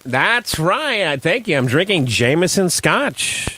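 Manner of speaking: slow, understated forties radio ad voice; lightly voiced old-timey pitchman; old-time sponsor read. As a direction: plug the drink like a 1940s host.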